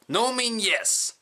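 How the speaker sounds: slow sage tip. Acted. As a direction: deliver it slowly like false wisdom. Mock wise tip.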